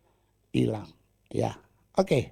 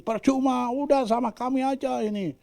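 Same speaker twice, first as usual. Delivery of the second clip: mock jeering frog; 11 semitones higher than usual. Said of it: "Diteriak-teriakin".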